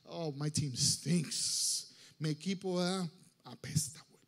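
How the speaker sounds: low, sinking, dejected grumble; mock-glum, drawn-out refusal; bored whining. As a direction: moan like a let-down fan. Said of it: "it's so boring".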